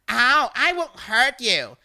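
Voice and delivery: fake-soothing taunt; mock reassurance. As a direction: caller mock-reassuring the victim.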